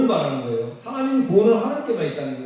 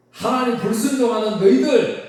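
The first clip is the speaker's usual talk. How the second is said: God pronouncing judgement; 4 semitones higher than usual. Retold or imitated. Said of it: "뜻으로 말씀하시는 겁니다".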